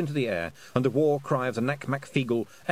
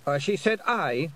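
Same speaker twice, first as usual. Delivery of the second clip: mild shout, slow and firm; 7 semitones higher, 3 dB louder than usual. Acted. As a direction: drown out the objection. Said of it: "Rob Anybody shouted".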